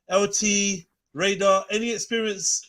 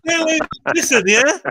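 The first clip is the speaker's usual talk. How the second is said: threatening; 8 semitones higher, 6 dB louder than usual. Pretend. Threatening ex role-play.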